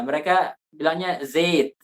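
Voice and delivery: "zait" said as "zet"; Arabic zait. Shown as a demonstration. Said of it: "Bilang zait". ("zait" dibaca "zet")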